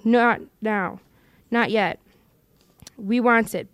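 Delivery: a lightly voiced Gollum, scheming and wheedling. Gollum arguing with himself over the ring, in a scheming wheedle. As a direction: Gollum muttering to his precious, coaxing himself.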